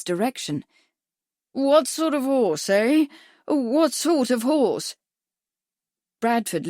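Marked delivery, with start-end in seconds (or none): 1.5-5.0 slow, raised, pressing question; insistent repeated question. A narrator's reading. Doctor pressing Bradford about his horse, slowly and loudly.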